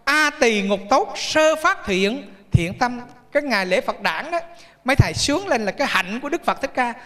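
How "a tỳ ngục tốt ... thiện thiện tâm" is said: slow, drawn-out scripture recitation; chanting an old saying slowly for the congregation; slow recited verse. Shown as a demonstration. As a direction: intone each phrase slowly like a verse. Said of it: "quý vị nghe cái câu mà".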